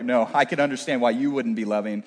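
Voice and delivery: low, mock self-assured reply; imagined smug listeners. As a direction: imitate the congregation quietly excusing themselves. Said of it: "All of you are like".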